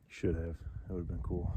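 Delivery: loud joking call. Real, not acted. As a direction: shout it over the distance. Calling out to distant friend.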